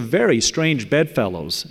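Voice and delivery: "very" leaned on with a pitch swell; stress on very. Real, not acted. Lecturer flags an unlikely ally to the audience, heavy stress on "very". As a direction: punch the word "very". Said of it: "I emphasize the word very".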